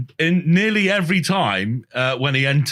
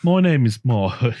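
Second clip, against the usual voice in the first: Brummie attempt slipping off course; attempted Brummie accent; 2 semitones lower than usual. Mike retrying his line for friends, wobbly Brummie accent. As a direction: try Brummie and lose hold of it. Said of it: "it's going one now".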